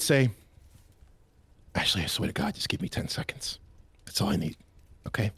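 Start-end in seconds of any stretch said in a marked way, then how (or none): 1.7-5.3 low whispered plea through clenched teeth; low, strained whispered warning; tense whisper. Acted. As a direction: whisper it, barely holding on. Ransom at breaking point.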